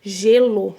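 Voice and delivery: Gelo with the G held like J; clear demo word. Shown as a demonstration. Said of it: "Por exemplo". (Gelo falado com clareza, G como J)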